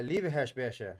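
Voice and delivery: "Liebeheersbeestje" tried the Dutch way, sounding like leeva-hairs-bay-sha; a learner's careful go at "Liebeheersbeestje" in Dutch; attempted Dutch word. Shown as a demonstration. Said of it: "I'm sure my accent sucks".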